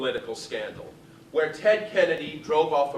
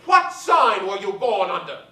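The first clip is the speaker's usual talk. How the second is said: Betty Davis asking; 4 semitones higher, 7 dB louder than usual. Retold or imitated. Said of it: "she turned to my mother and said".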